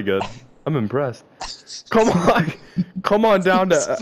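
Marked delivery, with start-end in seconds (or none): 1.9-4.0 high mock Australian, cracking up; Australian accent. Friend failing at the steakhouse advert, in laughing mock Australian. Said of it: "talk like them".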